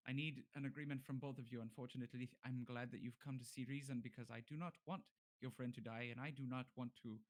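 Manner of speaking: lightly voiced, formal bargainer; bargaining captive. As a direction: reason with them in careful, formal speech. Game master voices bargaining character.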